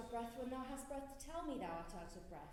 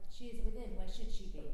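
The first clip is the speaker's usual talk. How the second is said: exasperated outburst; 4 semitones lower, 12 dB louder than usual. Acted. Juliet exasperated at the nurse.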